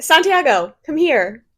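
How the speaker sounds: lifted voice, beckoning by name; calling someone over. Real, not acted. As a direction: call them over to join you. Calls Santiago over to the microphone.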